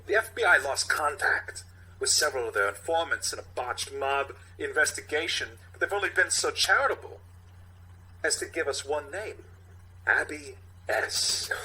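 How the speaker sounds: halting Walken cadence, lightly done; Walken impression. Captain laying out the case, in a light Walken voice. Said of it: "played by Walken".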